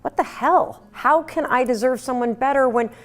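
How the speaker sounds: half-shouted disbelief at an ex; loud, acted heartbroken indignation; indignant outcry. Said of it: "You want to scream".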